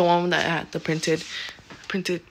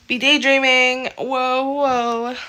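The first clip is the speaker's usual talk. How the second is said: surprised; 6 semitones higher, 9 dB louder, slower than usual. Real, not acted. Startled mid-sentence.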